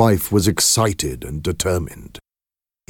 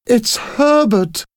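much higher, louder, slow cry of the name; joyful shout; 5 dB louder, slower than usual. Acted. Mother hears her dead son knocking, high shout. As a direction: cry out the son's name in wild hope. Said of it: "she shouted".

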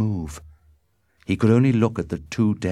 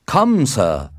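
loud, raised-pitch dare; challenge; 6 semitones higher, 7 dB louder than usual. A narrator's reading. Mercutio calls Tybalt to fight, in a loud challenge. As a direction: dare your opponent loudly.

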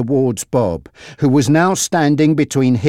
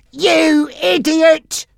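slow, much higher scolding cry; angry cry; 13 semitones higher, much slower than usual. Acted. Frankie to Monty, crying out angrily. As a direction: hurl it at him in frustration. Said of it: "he cried".

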